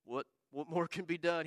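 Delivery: low, glum, resigned character voice; downcast, quietly defeated grumble; Eeyore. Acted. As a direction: mope softly, as if every hope is gone. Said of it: "that's my impression of Eeyore".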